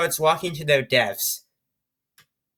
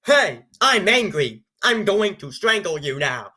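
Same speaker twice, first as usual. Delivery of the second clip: deadpan skateboard. Retold or imitated. Imagining the skateboard declaring it will strangle, deadpan. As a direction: say it like a bored robot announcing rage. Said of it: "hobbling up and down like".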